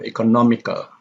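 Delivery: "economical" as eco-NOM-ical; third-from-last stress. Shown as a demonstration. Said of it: "the stress is on the third syllable".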